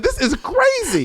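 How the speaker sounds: high, slow laughing disbelief. Retold or imitated. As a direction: say it through laughter. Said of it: "I said".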